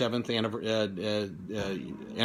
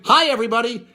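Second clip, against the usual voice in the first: higher, louder mock catchphrase; imitating catchphrase; 8 semitones higher, 6 dB louder than usual. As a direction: toss it out like the label slogan. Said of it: "with her catchphrase".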